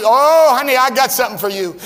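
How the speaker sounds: lightly voiced cheerful nurse; kindly nurse. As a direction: play the nurse offering relief, fast. Nurse voiced in pain story.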